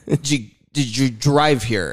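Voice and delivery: loud, high, drawn-out mock dad questions; hammed-up dad quizzing tourists, slow and high; goofy dad impression. Imitates dad quizzing German tourists.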